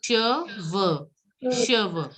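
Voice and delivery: Cheveux as "shuh-vuh", falling; careful two-syllable Cheveux; pronunciation model. Shown as a demonstration. Teacher models the word for hair, careful "shuh-vuh" for Cheveux. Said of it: "hair is called cheveux".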